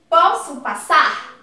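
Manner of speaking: slow, firm direct question. Shown as a demonstration. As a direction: ask it straight out, each word clear. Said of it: "Olha como eu fui direto".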